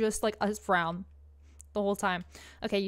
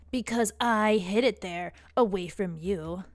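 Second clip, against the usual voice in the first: sultry emo voice. Acted. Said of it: "a sultry emo voice for these characters".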